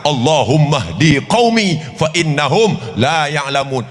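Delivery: slow, chanted Arabic prayer; prayer recitation. Acted. The Prophet prays for those who hurt him, slow chant. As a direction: recite it devoutly, slowly.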